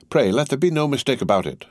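restrained indignation; suppressed anger. A narrator's reading. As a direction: drive the warning home, anger contained. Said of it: "now it was his turn".

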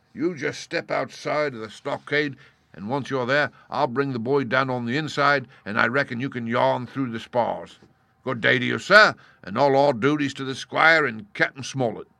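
hearty pirate talk, humbly persuasive; wily pirate leader, ingratiating. Acted. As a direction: wheedle like a crafty old sea cook. Voices Silver, the pirate leader.

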